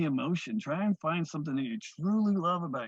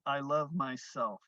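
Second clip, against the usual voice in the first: slow, softer, tender "I love myself"; soft affirmation; 2 semitones lower, 5 dB quieter, slower than usual. Shown as a demonstration. Teacher naming the core intention, slow and soft. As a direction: say it gently to yourself. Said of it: "the totality is".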